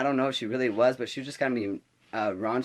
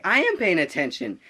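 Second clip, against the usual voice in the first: higher-pitched mock protest; indignant retort; 5 semitones higher, 3 dB louder than usual. Student arguing back at the teacher, indignant retort. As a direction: push back indignantly, stressing AM.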